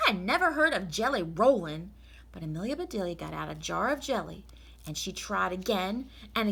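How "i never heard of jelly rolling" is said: exclaimed. Acted. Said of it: "exclaimed Amelia Bedelia".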